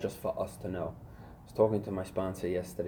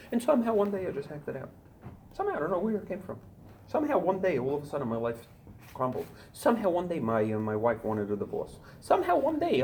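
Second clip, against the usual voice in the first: mock excuse; 8 semitones higher, faster than usual. Mocking relapsers' excuse.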